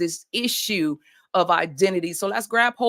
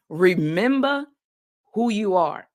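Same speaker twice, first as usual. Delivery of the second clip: a hint of a grave royal father; playful light take on a wise king; Mufasa voice. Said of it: "in my Mufasa voice".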